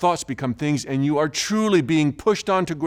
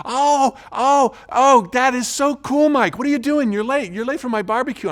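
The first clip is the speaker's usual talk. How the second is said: mocking, much higher and louder put-on excitement; sarcastic brother; 11 semitones higher, 7 dB louder than usual. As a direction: ham it up as if humoring a fantasist. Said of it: "He thinks I'm playing make-believe".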